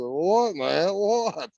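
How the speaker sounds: high, pressing retold reaction; retold impatient questioning. Storyteller replays reacting to "you're not gonna believe this", impatient questioning. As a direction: replay begging for the news, pitch jumping up.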